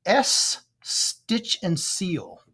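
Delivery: slow drawn-out bingo call; bingo caller. Shown as a demonstration. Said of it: "make the second call".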